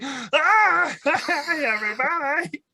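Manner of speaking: high, hollow tinny greeting; tinny soup-can voice. Pretend. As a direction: talk like through two soup cans. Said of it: "two soup cans on my head".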